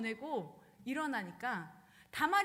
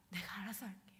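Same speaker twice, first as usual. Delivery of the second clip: whispered, low promise; hushed promise; 4 semitones lower, 7 dB quieter than usual. Retold or imitated. Absalom whispering to his sister Tamar that he will handle it. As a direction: whisper it like a secret vow.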